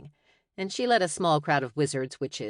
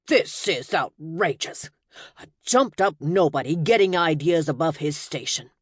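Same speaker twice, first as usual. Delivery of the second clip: outraged; 4 dB louder than usual. Acted. Wizard protests at security.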